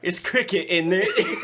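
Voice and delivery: high, laughing British caricature; hammed-up British tag question; mock British accent. Mock British cricket players.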